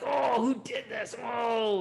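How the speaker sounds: high, outraged cry of angry disciples; mad disciples. Retold or imitated. Disciples demand who hurt the Buddha, outraged and high. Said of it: "they were so mad".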